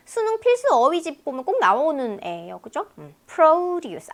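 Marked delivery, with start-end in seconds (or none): 3.3-4.1 "produce" with slow, high PRO; stress on first syllable. Shown as a demonstration. Teacher shows front stress, "produce" stressed on PRO. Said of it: "앞에 강세 있으면요".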